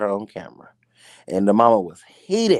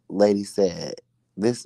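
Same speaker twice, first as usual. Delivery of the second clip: usual speaking voice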